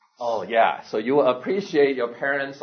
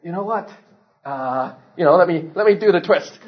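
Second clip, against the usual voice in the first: put-on baby bird idea; 3 semitones higher, 5 dB louder than usual. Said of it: "Baby bird might say".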